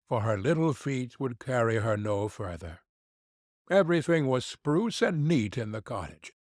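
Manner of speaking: usual speaking voice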